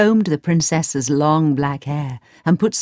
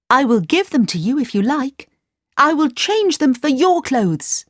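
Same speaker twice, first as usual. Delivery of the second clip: farmer voice; 8 semitones higher than usual. A narrator's reading. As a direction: read the farmer lightly voiced.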